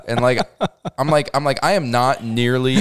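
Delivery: laughing through the words; can barely get it out for laughing. Real, not acted. Laughing while retelling.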